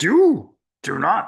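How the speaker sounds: slow, drawn-out wise master voice, swooping up and down. Trying out a favourite impression while talking, doing Yoda's voice. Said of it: "I love doing Yoda's voice".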